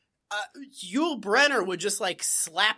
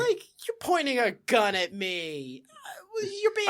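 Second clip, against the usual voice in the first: put-on indignant kid; 3 semitones higher than usual. Kid protesting as Barney points a pistol, whiny outrage. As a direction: play the affronted kid yelling at the deputy.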